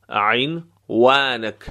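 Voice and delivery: عنوانک very slowly, و made with both lips puckered; rounded waw. Shown as a demonstration. Teacher showing how waw is made, rounded waw in عنوانک.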